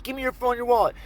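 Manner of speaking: high, insistent mock mugger; acted robber's demand. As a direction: repeat the order urgently.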